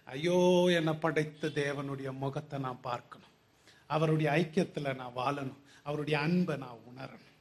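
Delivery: soft yearning plea, voiced low; mild soul's cry. Preacher voicing every soul's cry to God, hushed pleading. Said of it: "ஆவியினுடைய கதறல் என்ன".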